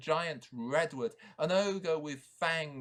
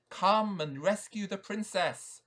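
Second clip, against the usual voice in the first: owl voice; 6 semitones higher, 6 dB louder than usual. Acted. Owl speaking to knight.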